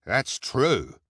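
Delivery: lightly voiced henchman; hook-handed man. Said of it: "the hook-handed man said".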